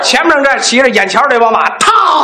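sudden alarmed yell; panicked shout. Acted. Rider panics downhill.

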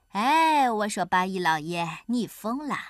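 laid-back teasing; unhurried, leisurely. Acted. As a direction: call out lazily, taking your time. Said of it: "他才慢悠悠地说".

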